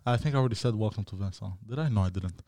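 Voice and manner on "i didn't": normal talking voice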